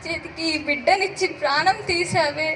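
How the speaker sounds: a mother's anguished grief; grieving lament. Acted. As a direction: cry out to God in sorrow. Grieving the dying baby. (దేవుడిని నిందిస్తూ దుఃఖం)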